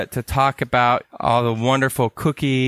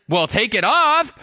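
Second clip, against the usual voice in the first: buddy's advice; 9 semitones higher than usual. Retold or imitated. Buddy advising on phone.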